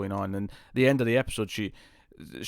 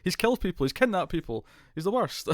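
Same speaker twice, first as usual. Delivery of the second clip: laughing mock whine; 7 semitones higher than usual. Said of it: "and she's like".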